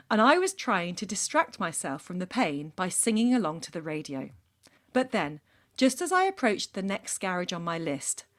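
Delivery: measured storytelling read-aloud; deliberate narration with emphatic phrasing; letter read aloud. A narrator's reading. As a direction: read it out like a personal confession story. Reads a listener's letter aloud.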